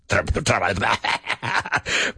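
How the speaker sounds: stumbled word. Real, not acted. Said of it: "Perfecto, bro".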